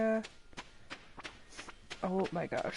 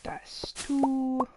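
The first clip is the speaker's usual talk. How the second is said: whispering; 3 semitones higher, 9 dB quieter, slower than usual. Real, not acted. Whispering to herself while planting.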